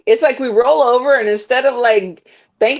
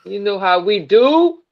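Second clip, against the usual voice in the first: put-on weak, wobbly New York accent; bad New York accent. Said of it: "that was a bad New York accent".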